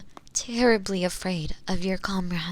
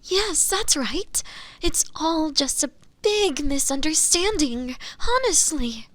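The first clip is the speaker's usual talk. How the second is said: higher-pitched, over-eager insistence; eager protest of innocence; 5 semitones higher than usual. Acted. Accused assures the Inquisitor it's a mistake, eagerly. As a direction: seize the opening and insist, pitch lifted.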